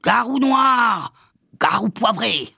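slow, high shrieking incantation; yelping witch. A narrator's reading. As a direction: shriek the spell like a furious witch. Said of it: "Elle se mit à glapir".

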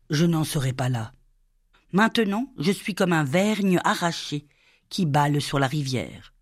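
usual speaking voice

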